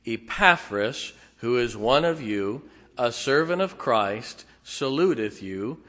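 congregation reading aloud together; many voices in unison. Real, not acted. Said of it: "let's read verse number twelve together in unison".

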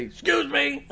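high laughing yelp of Excuse me; mock exasperated excuse me. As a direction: squeal it over a crowded grocery aisle, half laughing. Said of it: "and you gotta say".

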